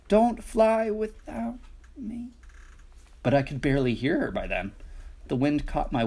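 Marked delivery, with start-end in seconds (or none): 0.1-2.3 calling out. A narrator's reading. Mama calls out rule three.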